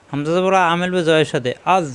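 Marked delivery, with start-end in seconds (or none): 1.8-1.9 আজ with a heavy, thick z. Shown as a demonstration. Teacher drilling the letter za, আজ with a thick z. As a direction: thicken the z that closes আজ. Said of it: "জ মোটা".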